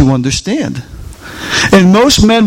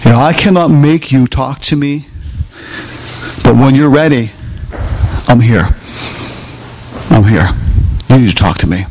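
reassuring; 5 semitones lower than usual. Retold or imitated. Pastor reassures the battered woman.

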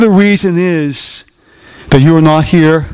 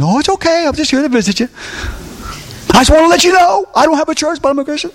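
mocking patient; 11 semitones higher, 3 dB quieter, faster than usual. Pastor parodying a patient's excuse at the hospital, high and whiny.

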